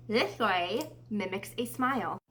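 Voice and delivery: slow, talking with a pen clamped in the teeth. Shown as a demonstration. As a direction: speak slowly through a pen held in the teeth. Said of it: "with a pen in my mouth".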